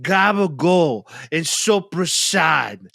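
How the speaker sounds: "gabagool" and "soprasad" drawn out, endings chopped; mock Italian-American "gabagool" and "soprasad", slowly; dropped final vowels. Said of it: "They get rid of the vowel at the end".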